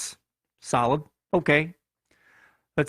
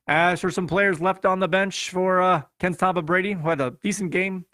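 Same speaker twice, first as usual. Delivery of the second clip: Chicago accent. Real, not acted. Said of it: "I don't know why I'm talking with a Chicago accent".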